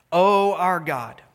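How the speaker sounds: slow, hushed whisper of Oh, our God; whispered prayer. Acted. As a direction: breathe the words out as a plea. Reading the people's prayer.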